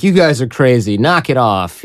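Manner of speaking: half-joking mild protest; imitated easygoing telling-off; almost joking. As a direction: brush them off lightly, no real anger. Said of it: "almost joking".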